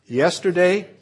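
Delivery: today and forever called out loud; call and response. Real, not acted. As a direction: lead the congregation in a loud response. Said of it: "say it with me".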